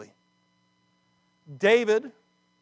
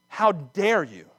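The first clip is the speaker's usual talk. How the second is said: indignant rebuke; 2 semitones higher, 4 dB louder, slower than usual. Acted. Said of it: "That's my paraphrase".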